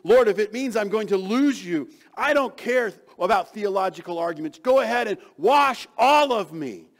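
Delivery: loud, high, passionate cry; fervent plea. Acted. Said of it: "He says".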